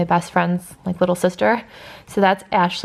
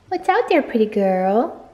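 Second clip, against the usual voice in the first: pet talk; 2 semitones higher than usual. Real, not acted. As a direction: coo at the pet by the window. Talking to her pet.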